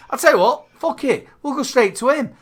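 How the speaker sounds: high-pitched laughing exasperation; mock exasperation. Real, not acted. Host giving up on wrapping the show, high and laughing. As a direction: hand it over in comic despair.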